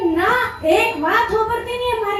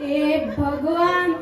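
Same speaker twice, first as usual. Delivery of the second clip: exasperated sigh; 3 semitones lower, 4 dB quieter, much slower than usual. Acted. Despairs at friend's mishearing.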